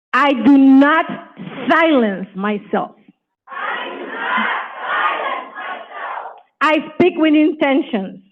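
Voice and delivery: rousing finale for the room; affirmation shout. Shown as a demonstration. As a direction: finish with full voice. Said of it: "so you can hear it yourself".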